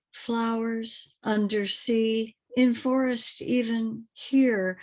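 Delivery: measured, lilting poem recitation; poetry reading. Acted. Poet reads from forthcoming book to listeners, measured poetry reading. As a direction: read it as verse, phrase by phrase, lingering on the images.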